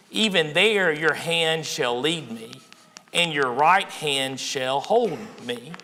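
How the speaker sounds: slow, measured psalm reading; unhurried Bible reading from the pulpit; scripture recitation. Acted. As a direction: recite the verse slowly, phrase by phrase.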